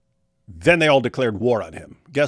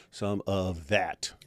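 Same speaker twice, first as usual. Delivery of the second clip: slow dictating while typing; 4 semitones lower, 7 dB quieter, much slower than usual. Real, not acted. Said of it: "gosh, I type slow".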